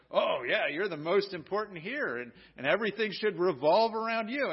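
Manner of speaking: mock agreement; a touch of sarcasm; mildly sarcastic. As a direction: lightly feign going along with it. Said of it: "we say it kind of sarcastically".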